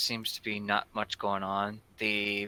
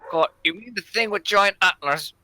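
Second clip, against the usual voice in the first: gruff bandit; 9 semitones higher, 6 dB louder than usual. Acted. GM voices bandit.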